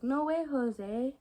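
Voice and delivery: big slow exclamation, retold; loud retold exclamation. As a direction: stretch it out loud and high. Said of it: "I said very loudly".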